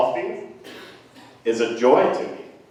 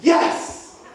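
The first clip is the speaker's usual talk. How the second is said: mock crowd cheer; 3 dB louder than usual. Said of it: "And everybody's like".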